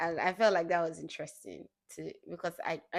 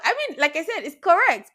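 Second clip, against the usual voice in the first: laughing; 10 semitones higher, 10 dB louder than usual. Real, not acted. Laughing at her own reaction.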